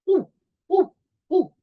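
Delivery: teacher barking as a very small puppy. Shown as a demonstration. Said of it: "This is a very small puppy".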